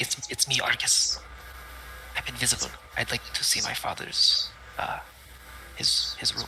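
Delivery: whispering in a character voice. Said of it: "I'm gonna whisper into his ear".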